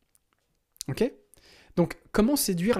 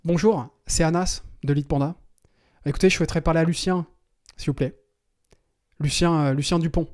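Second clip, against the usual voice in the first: assured, professional tone, first name dropped casually; businesslike caller, quick and sure; confident phone voice. Shown as a demonstration. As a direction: act like you know Lucien personally. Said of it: "je vais le répéter".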